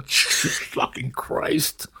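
breathy laughing curse, slowed right down; laughing exasperation. Real, not acted. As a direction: laugh it out in disbelief.

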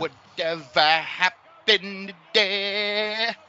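slow, drawn-out announcer voice. Pretend. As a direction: stretch it out like a TV announcer. Echoing segment name in voice.

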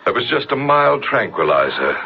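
normal talking voice

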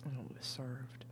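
hushed, breathy whisper. Real, not acted. Tipsy woman whispering about her salmon recipe, hushed. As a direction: whisper it like a delicious secret.

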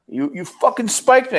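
high, slow accusation; accusing ballplayer. Retold or imitated. Opposing player to base stealer, high slow accusing.

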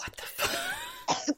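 stunned disbelief. Real, not acted. Shocked reaction to brag.

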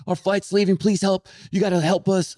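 high, frantic mock yell; yelling, pleading. Rude traveler to the counter agent, high mock yelling. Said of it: "the guy starts yelling at the counter guy".

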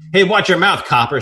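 loud, high indignant yelp; hammed-up secretary screech; mock scream. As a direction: squawk it from the corner. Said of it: "screamed Winston".

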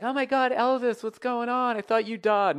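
very high, loud gushing; excited fans. Acted. Everybody greeting a singer's impersonator, high excited gushing. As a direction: shriek it like a starstruck fan.

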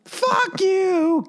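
high, hammed-up curse; imitating the neighbour flipping him off; mock curse. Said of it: "giving him the finger every time".

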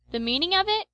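high, mocking echo of the question; crying out. A narrator's reading. Peterkin teasing his sleepy friend, high mock outrage. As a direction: toss the question back, playfully. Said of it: "cried Peterkin".

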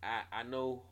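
talking between hookah puffs; smoking a hookah. Real, not acted. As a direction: exhale smoke while talking. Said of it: "I'm smoking hookah right now".

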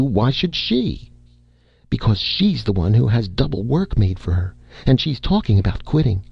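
a hint of a worried wife pleading; lightly voiced fretting wife. Wife urging her husband to speak to Red, lightly voiced and fretful.

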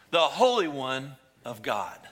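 a hint of the demon voice, still loud; lightly voiced demon naming Jesus. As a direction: finish the demon's cry firmly. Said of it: "the demons speaking".

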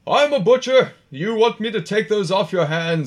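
high-pitched put-on onlooker's call; yelling from the crowd. Butcher offers to take the dead animals, calling out in a put-on voice. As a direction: pipe up eagerly from among the crowd. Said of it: "someone yells out from the crowd".

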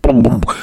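mouthed bass beat; imitated music beat. Rapper's music playing on, imitated beat. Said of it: "Your music come on".

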